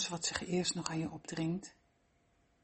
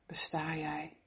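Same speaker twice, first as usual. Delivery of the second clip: whispering; slower than usual. Acted. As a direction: breathe the words out. Whispered aside within meditation.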